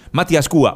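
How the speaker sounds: "Mati Ascua" with the U accented; stress on the U. Shown as a demonstration. Repeating a listener's full name, stress on the U. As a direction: land on the U in "Ascua". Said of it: "con acento en la U".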